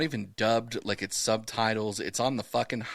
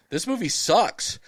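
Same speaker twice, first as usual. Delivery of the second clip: higher, slow mock whine; buddies' complaint; 6 semitones higher, 3 dB louder, slower than usual. Buddies telling him the movie sucks, mock whine. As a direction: drag it out like a bored buddy. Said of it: "And they're like".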